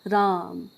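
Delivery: "राम" with its vowel held long, as if calling out; drawn-out call. Shown as a demonstration. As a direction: stretch "राम" like calling someone across a stage. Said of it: "थोड़ा suspense type का create करके बोलते हैं". ("राम" को खींचकर पुकारते हुए)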